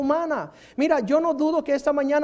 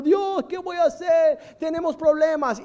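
Moses crying; 4 semitones higher than usual. Retold or imitated. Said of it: "está Moisés llorando".

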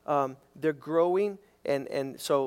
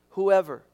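Whoever punched louder; stress on WHOEVER; 5 dB louder than usual. Shown as a demonstration. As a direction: underline Whoever with the voice. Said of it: "underline that word".

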